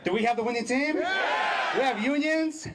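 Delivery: rousing shout to the crowd; rally speech. Real, not acted. Firing up the crowd.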